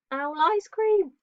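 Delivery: up high and drawn out, relishing the twist; mock-spooky storyteller reveal; dramatic punchline. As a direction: land the scary punchline slowly. Punchline of the Gruffalo's favourite food.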